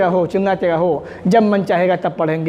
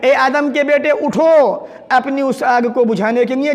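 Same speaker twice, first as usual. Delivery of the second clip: slow, drawn-out summons; angel calling out; 4 semitones higher, slower than usual. Acted. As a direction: call them to rise, stretching the words. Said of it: "फरिश्ता आवाज़ें दे रहा है". (फरिश्ते की धीमी लंबी पुकार)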